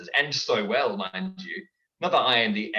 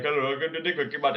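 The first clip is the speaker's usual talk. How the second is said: Apu voice; faster than usual. Shown as a demonstration. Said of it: "keep sounding like, um, Apu".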